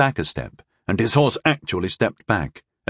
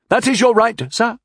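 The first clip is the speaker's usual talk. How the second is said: through clenched teeth; 13 semitones higher, 4 dB louder than usual. Acted. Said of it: "admitted through clenched teeth".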